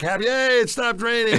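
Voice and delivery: high-pitched retold cheer; hammed-up, short-lived jubilation; mock celebration. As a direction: act out a relieved little hooray. Acting out relief at rain stopping.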